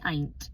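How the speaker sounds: "ain't" for anything, in one syllable; Essex pronunciation. Shown as a demonstration. Showing how she said anything at school, Essex "ain't". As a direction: squash "anything" down to a single "ain't". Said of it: "instead of saying anything".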